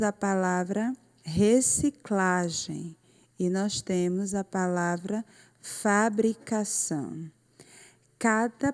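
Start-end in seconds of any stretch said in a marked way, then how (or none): 1.2-2.9 reciclagem slowed, with CLA stressed. Shown as a demonstration. Teacher reads an example word to pupils, stressing CLA in reciclagem. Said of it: "uma sílaba que quando a gente falou". 5.6-7.3 fabricação spelled out by syllable, ending on stressed ÇÃO. Shown as a demonstration. Teacher gives pupils an example word, stressing ÇÃO in fabricação. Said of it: "ela saiu com mais força".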